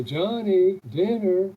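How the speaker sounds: loud call across the yard. Retold or imitated. Mother calling her son in a second time, loud call. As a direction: call him in again.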